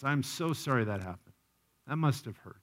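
gently commiserate with someone who got hurt; acted sympathy.

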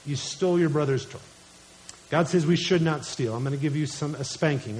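put-on gently but firmly correct a child; loving parental correction. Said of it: "I speak to them lovingly".

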